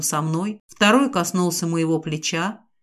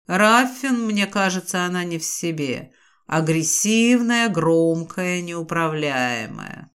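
hissing serpent dragon; 2 semitones lower, slower than usual. Acted. The naga speaks to Raffin.

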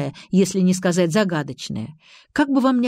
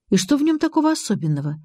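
quick, higher-pitched impatient question; losing patience; 7 semitones higher, faster than usual. A narrator's reading. Narrator asks about the mysterious signal, losing patience. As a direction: ask it fast, patience running out. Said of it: "теряя терпение".

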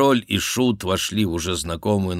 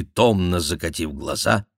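usual speaking voice

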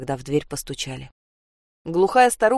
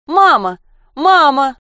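joyful shouting; 9 semitones higher, 11 dB louder, much slower than usual. Acted. Girl hears her mother.

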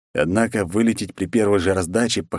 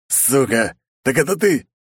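higher, louder furious outburst; angry accusation; 7 semitones higher, 3 dB louder than usual. Acted. Zaruba accuses the hero of cheating, a hammed-up furious yell. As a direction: spit the accusation at him.

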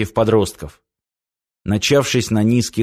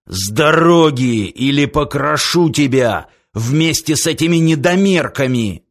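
threatening; 2 semitones higher than usual. Acted. Orderly threatens stalker.

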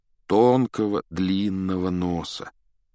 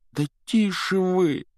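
pleading; 11 semitones higher, slower than usual. A narrator's reading. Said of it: "взмолился Гарри".

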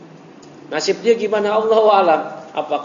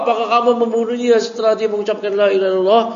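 higher, louder and faster accusing repeat; cornering question; 8 semitones higher, 5 dB louder, faster than usual. Retold or imitated. Prophet repeating the question to frightened Usama, cornering. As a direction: hammer the question home. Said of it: "itu memojokkan".

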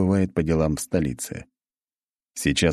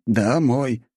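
through gritted teeth; 6 semitones higher than usual. A narrator's reading. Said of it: "стиснув зубы, процедил он".

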